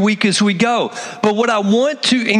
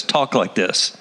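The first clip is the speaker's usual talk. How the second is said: disciples realizing; 8 semitones lower, slower than usual. Retold or imitated. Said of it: "And then they were like".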